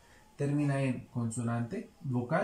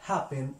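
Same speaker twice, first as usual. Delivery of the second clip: happen stressed on its first syllable, HAP-pen. Shown as a demonstration. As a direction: lean on the opening syllable of happen. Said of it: "el acento en la primera sílaba". (happen con acento en la primera sílaba)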